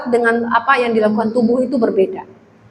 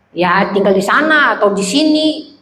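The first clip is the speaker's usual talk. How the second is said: slow, lower, lightly played drunkard; meniru pemabuk; 4 semitones lower than usual. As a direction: vague answer, dragged out lightly like a drunk. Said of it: "seorang pemabok". (pemabuk tiruan, pelan dan rendah)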